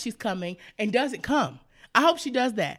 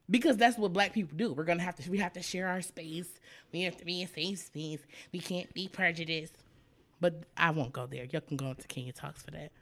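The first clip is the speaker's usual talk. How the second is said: winded, trailing softly; running out of air mid-rant; out of breath; 5 semitones lower, 8 dB quieter than usual. Real, not acted. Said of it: "I'm out of breath again".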